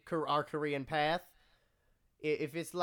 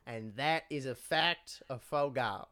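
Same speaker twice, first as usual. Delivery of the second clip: preacher voice. Pretend. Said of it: "Preacher Hagler".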